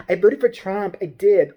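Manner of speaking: lightly mimicked angry shopper; mildly hammed-up indignant customer; mock entitled Karen. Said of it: "All angry white bitches talk like this".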